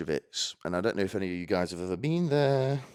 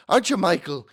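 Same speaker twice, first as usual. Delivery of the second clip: higher, louder tease; calling out; 10 semitones higher, 9 dB louder than usual. Real, not acted. Comic to Michael in the audience, raised teasing call. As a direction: call across to someone in the crowd.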